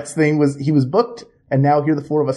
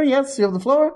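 formal chairman; 10 semitones higher than usual. Acted. Mock chairman granting floor.

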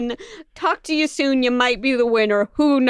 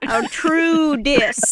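dry deadpan; much slower than usual. Pretend. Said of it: "Ollivander says dryly without laughing".

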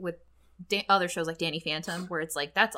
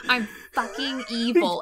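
a touch of mock villainy, voice a little off; mock evil declaration. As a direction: play at being the bad guy. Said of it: "mock evil William quote".

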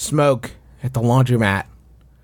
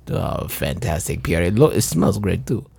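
put-on French accent; 3 semitones lower than usual. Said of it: "your French accent".

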